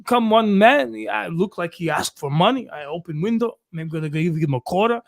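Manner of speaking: broken-English Croatian stepfather; Croatian accent. Retold or imitated. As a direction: tell it like a Croatian dad. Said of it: "you gotta tell it in his voice".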